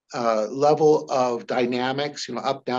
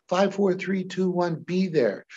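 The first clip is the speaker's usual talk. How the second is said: higher, punchy countdown; attention-grabbing count; 4 semitones higher than usual. Shown as a demonstration. Hypnotist counting a client back in time, punchy. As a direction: snap them back with the count. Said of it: "grabbing their attention like this".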